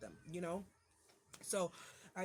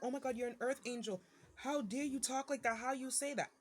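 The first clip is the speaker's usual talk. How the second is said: mock scandalized people; 5 semitones higher than usual. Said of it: "people gonna be like".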